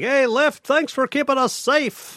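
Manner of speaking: high, chirpy sales pitch; mock cheery ad voice. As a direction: sing it like a cheesy commercial. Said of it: "and I'm like".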